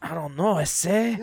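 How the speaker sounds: put-on Mexican accent. Husband answering wife at a theme park, mock Mexican accent. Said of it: "my Mexican voice on".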